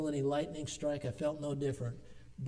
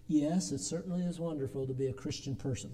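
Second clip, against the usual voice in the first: imitating grandma's gentle hint. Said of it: "That's the way she said it".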